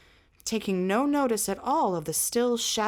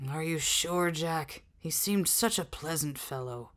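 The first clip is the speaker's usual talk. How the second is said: lower, softer deflated question; drooping voice; 4 semitones lower, 3 dB quieter than usual. Acted. Cully doubting Jack about the prisoner, deflated and drooping. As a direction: let the voice sag with disappointment. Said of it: "Cully's voice drooped".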